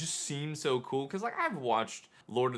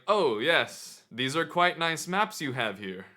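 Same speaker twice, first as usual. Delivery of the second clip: slightly higher, lightly put-on Renaissance voice; awkward changed voice; 4 semitones higher, 5 dB louder, slower than usual. Flustered visitor praises vendor's maps, in a lightly affected voice. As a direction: attempt role-play with a hint of affected politeness. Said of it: "my voice starts changing a whole bunch".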